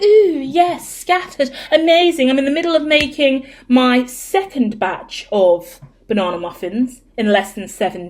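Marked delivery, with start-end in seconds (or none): 0.0-2.3 mock gushing. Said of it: "my energy is like".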